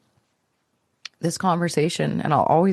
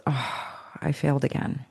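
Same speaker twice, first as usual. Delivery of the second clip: quiet, defeated mother; 3 semitones lower, 6 dB quieter than usual. Retold or imitated. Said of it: "the way she said that".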